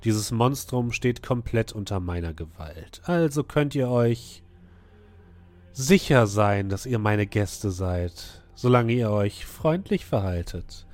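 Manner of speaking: slow, gracious but menacing; a lightly voiced ruler with a veiled threat; masked ruler voice. GM voicing the masked woman.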